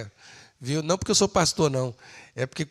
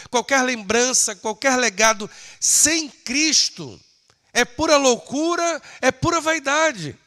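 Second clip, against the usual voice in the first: raised, ringing pulpit voice; impassioned preaching; 9 semitones higher, 6 dB louder than usual. Acted. Preacher declaring Christ's victory over death to the church, impassioned. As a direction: proclaim it high, leaning on the key words.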